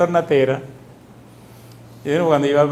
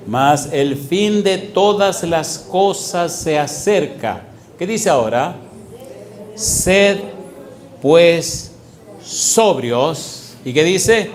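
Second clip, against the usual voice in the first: solemn scripture reading; much slower than usual. Shown as a demonstration. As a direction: read each word weighty and slow. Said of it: "reading scripture slowly".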